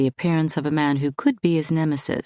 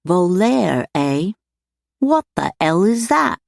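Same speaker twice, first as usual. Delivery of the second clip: loud, much higher demand; 5 semitones higher, 5 dB louder than usual. A narrator's reading. Clegg demanding what voleur means, loud. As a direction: bark the question, annoyed. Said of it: "Clegg demanded".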